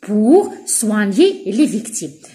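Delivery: very slow, stressed reading of the phrase; teacher dictating slowly; slow dictation. Shown as a demonstration. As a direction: spell it out slowly for the class. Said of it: "reads purpose phrase slowly".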